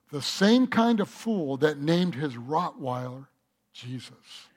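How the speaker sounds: low, dry punchline; deadpan bird comeback; smug parrot. Acted. Bird answering the thief with a smug punchline.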